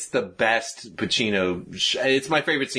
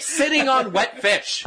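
laughing; 13 semitones higher, slower than usual. Real, not acted. Joking about fish seat.

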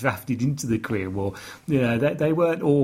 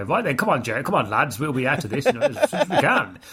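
lightly voiced brisk officer rallying his lads; brisk British officer. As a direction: chivvy the lads along, a hint of officer briskness. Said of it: "he's quite brisk to start off with".

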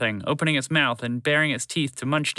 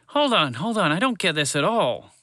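high, insistent interruption; confused protest; 6 semitones higher than usual. A narrator's reading. Walter the frog interrupting the physics talk, confused. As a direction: break in, pitched up and baffled.

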